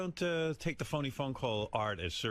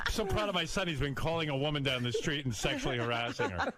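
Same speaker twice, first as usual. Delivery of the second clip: higher-pitched pretend doting dad; mock proud father; 4 semitones higher than usual. Host as dad boasting about his son, mock pride. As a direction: gush with fake pride.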